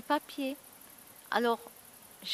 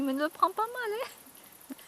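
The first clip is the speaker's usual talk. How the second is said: teasing friend; 10 semitones higher, slower than usual. Retold or imitated. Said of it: "Chaque fois elle me dit".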